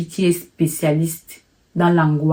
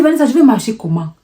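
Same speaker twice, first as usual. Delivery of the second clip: panicked plea; 5 semitones higher, faster than usual. Retold or imitated. To his sister, scared to walk on, a panicked plea. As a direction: rush the words out in fear.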